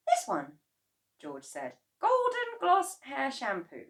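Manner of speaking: put-on high boyish voice; boy's voice. A narrator's reading. George answering his father, high boyish voice. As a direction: speak up like a young boy.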